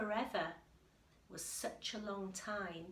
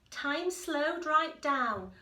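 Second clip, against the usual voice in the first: slow and louder; 7 semitones higher, 10 dB louder, slower than usual. A narrator's reading. Reading the suspense to a child, slow and drawn out. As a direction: stretch each word as time stops.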